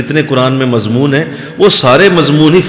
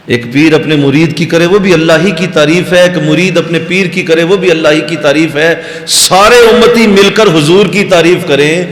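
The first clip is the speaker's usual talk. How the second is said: rising, louder build to a climax; building preaching fervour; 4 semitones higher, 3 dB louder than usual. Real, not acted. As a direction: drive each example higher, peaking on the last. Preacher builds a repeated list to climax. (جوشِ خطابت میں بتدریج بلند ہوتی آواز)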